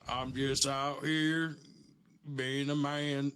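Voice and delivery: drawling put-on manly voice. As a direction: stretch it out like an old rancher. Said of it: "what's your man voice sound like?".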